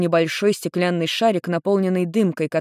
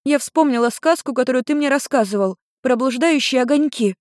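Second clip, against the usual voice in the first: put-on higher young girl's voice, eager; lightly voiced daughter telling her story; teen girl explaining; 7 semitones higher than usual.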